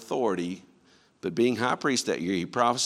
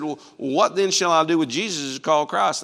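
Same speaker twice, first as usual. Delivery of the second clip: loud, raised governor's question to a crowd; a ruler appealing to the mob; Pilate pleading; 5 semitones higher, 7 dB louder than usual. Acted. Pilate asking the crowd what to do with Jesus, loud and pleading.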